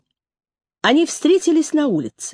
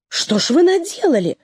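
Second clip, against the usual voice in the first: exclaiming; 6 semitones higher than usual. A narrator's reading. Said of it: "воскликнула женщина-врач".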